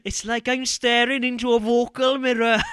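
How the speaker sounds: loud, high teasing protest; mock indignant outburst. Host reacting to co-host claiming to sound exactly like him, loud mock outburst.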